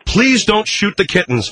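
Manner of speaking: pleading. Acted. Host begs sidekick to spare kittens, pleading. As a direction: beg him gently, drawing it out.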